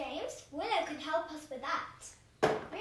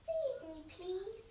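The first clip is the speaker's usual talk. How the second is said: puppet voice; 2 semitones higher, slower than usual. Pretend. Puppet asks for food.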